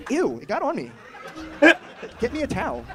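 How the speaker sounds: high, loud, laughing squeal of disgust; mock disgust. Retelling the milk spraying on him, laughing disgust. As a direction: shriek it out through laughter, grossed out.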